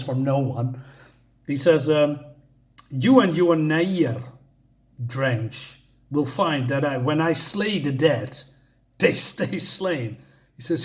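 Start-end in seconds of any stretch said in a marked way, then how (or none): 2.9-10.2 slow, dramatic reading of a hero's boast; lightly acted, drawn-out heroic declaration; grandiose Thor. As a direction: savour each word like a comic-book warrior. Reads Thor's grandiose comic-book lines.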